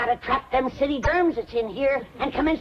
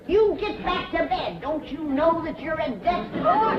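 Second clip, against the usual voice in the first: scolding; 5 semitones higher than usual. Acted. Granny scolds Jed again.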